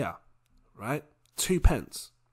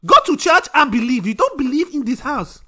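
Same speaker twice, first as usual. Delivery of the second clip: higher, louder scolding mum voice; Nigerian mum scolding; 9 semitones higher, 8 dB louder than usual. Retold or imitated. Mum ordering her son to church, loud scolding. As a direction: lay down the law like a strict mum. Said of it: "She wants me to believe in church".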